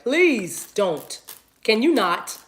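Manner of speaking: drawn-out "please", imitated objection; mock pleading Bostonians. Bostonians objecting to her accent, mock plea. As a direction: act out locals begging her to stop. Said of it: "Bostonians gonna be like".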